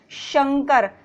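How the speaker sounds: शंकर slowly with sh; correct sh, slow. Shown as a demonstration. Teacher giving the pure sh in शंकर. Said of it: "शुद्ध उच्चारण है".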